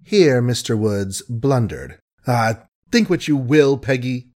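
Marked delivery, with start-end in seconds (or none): 2.2-4.3 a hint of a cracking sob; voice cracking, sobbing. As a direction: let the voice crack with pain. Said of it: "his big voice cracking and sobbing".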